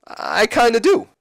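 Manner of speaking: slow, drawn-out wry comeback; amused teasing. Retold or imitated. Foley answering Triple H's game line, amused and teasing. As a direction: ease into a rising, teasing admission. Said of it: "Foley chuckles, and he says".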